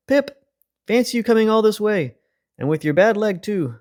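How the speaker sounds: put-on high, delighted old vole voice; a cheerful old lady vole greeting a friend; elderly vole crying out. A narrator's reading. Elderly vole greets Mister Apple, high and delighted. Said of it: "she cried".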